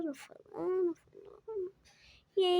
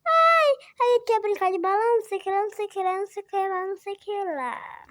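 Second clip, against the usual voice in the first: mocking; 3 semitones higher, 4 dB louder, faster than usual. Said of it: "ficou debochando".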